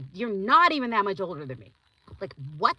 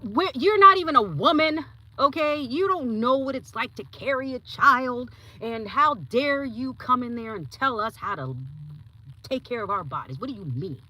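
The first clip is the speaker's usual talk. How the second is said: mock outraged students; 4 semitones higher, 6 dB louder than usual. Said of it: "They were like".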